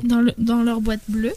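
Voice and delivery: reprend plus fort, la bouche près du micro. Real, not acted. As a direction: redit la phrase plus présente pour le micro. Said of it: "parle bien près de ton micro". (plus près du micro, plus fort)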